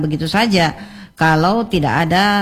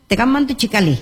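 higher-pitched Makassar-accented greeting; 5 semitones higher, faster than usual. Shown as a demonstration. Showing how youngsters borrow Makassar dialect, light Makassar accent. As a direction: lightly demonstrate a Makassar lilt. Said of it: "logat-logatnya saja seperti".

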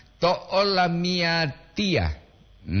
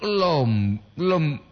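usual speaking voice

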